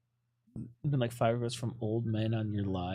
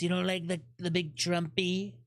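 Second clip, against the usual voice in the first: hint of a Trump impression, a touch higher; 4 semitones higher than usual. Teasing chat in a light mock Trump voice. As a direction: lightly mimic Trump's bragging tone. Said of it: "when I do the Trumpy voice".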